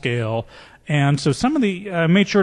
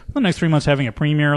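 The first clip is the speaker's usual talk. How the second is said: quick, offhand; faster than usual. Shown as a demonstration. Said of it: "cast and crew is all breathing a sigh of relief".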